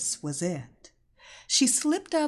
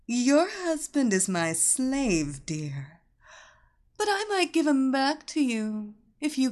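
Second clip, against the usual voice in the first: sultry mistress voice. Acted. Seductress taunts wife by phone.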